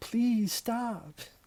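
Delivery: soft, small, high-pitched begging plea. Retelling a scene where Lisa Simpson begs the shoes: imitating Lisa Simpson begging. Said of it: "That little sort of begging".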